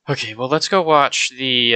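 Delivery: ordinary talk, nothing marked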